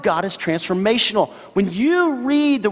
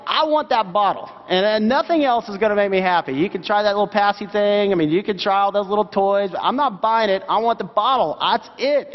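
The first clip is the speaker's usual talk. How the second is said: put-on higher, whiny demanding baby voice; hungry baby; 3 semitones higher than usual. Pastor voicing a hungry baby's stubborn demands, mock whiny. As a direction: play a fussy baby who wants only the bottle. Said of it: "that baby is like".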